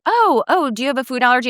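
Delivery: mock-worried high teacher voice. Teacher asking a little girl about allergies, mock worried and high. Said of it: "they were like".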